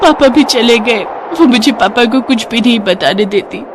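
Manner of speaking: put-on a small girl pouring out her troubles; tearful little girl. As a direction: daughter telling her mother's spirit, childlike. Daughter tells mother's spirit.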